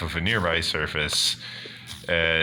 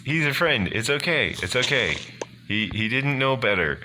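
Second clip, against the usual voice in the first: flustered high-pitched greeting; 10 semitones higher than usual. Acted. Sleeper stumbles out to call the golem off a friend, flustered and high. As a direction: squeal in surprise, then hurriedly placate.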